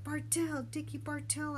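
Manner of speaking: high, called-out name; hollering. A narrator's reading. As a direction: holler the answer across the water. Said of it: "I hollered".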